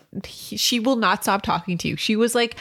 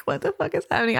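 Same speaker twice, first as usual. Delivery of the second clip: mock serious; 8 semitones higher, faster than usual. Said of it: "you were so serious".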